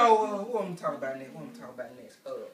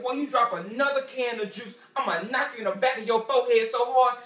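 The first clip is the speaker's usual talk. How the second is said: mom's threat; 4 semitones higher, 6 dB louder than usual. Retold or imitated. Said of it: "Mom used to say stuff like this".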